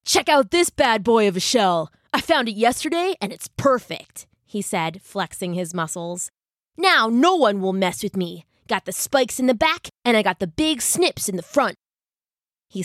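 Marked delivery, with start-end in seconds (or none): 0.1-4.3 brash tough crab voice; boastful beefy crab; snappy clicking crab. Acted. 6.8-11.8 brash tough crab voice; boastful beefy crab; snappy clicking crab. Acted.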